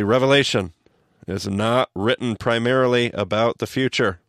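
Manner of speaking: slow, emphatic, each phrase weighted; slow and deliberate. Shown as a demonstration. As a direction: read it slowly, like bold text. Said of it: "I'll say this slowly".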